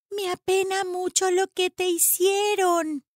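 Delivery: put-on high, tender girl's voice; hushed sympathy. A narrator's reading. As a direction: soothe a hurt bird with pity. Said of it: "le dijo Annie al cuervo muy bajito".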